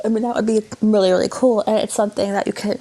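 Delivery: talking through a yawn; words stretched by a yawn. Real, not acted.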